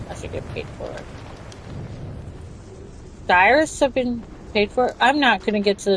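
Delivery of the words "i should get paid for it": unvoiced whisper, muttering to herself; whispered aside. Real, not acted. Streamer whispers her pay complaint to herself, whispered. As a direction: breathe the complaint as a private whisper.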